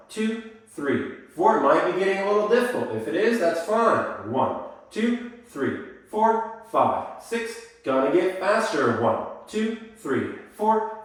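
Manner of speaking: counting beats in time, pitch jumping; sing-song counting of the steps; rhythmic dance count. Shown as a demonstration. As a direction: call the beats for the class.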